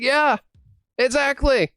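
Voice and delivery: a touch of keen show-and-tell; eager explainer. Retold or imitated. Kid showing off the Switch to a newcomer, eagerly confirming.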